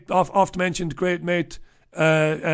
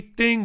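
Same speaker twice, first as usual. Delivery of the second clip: imitated bell ding; 5 semitones higher than usual. Ticking off a list item.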